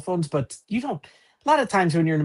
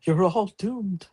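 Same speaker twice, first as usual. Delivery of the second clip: slow, ominous prophet of doom; slow ominous raspy drawl; 4 semitones higher, much slower than usual. Pretend. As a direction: drag out the doom warning slowly. Imitating Crazy Ralph doom line.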